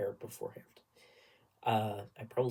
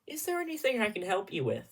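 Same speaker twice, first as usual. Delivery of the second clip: imitated high-pitched pointed challenge; snapping director; 9 semitones higher, faster than usual. Director calling out two noisy tenors, imitated snap. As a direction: mimic a director snapping at disruptive singers. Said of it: "Mister Director Man snaps over".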